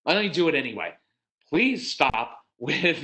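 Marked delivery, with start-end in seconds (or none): 1.5-2.4 slow, drawn-out sugary request; really sweet. Shown as a demonstration. Parent asking a strong-willed child to stop, syrupy sweet. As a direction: stretch it out sweetly. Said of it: "do not use the really sweet tone".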